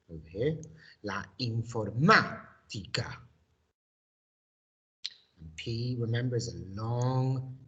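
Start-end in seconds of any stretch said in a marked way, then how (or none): 1.0-3.2 La música louder, stress on the accented MÚ; model pronunciation. Shown as a demonstration. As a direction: hit the MÚ in La música clearly. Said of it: "My turn".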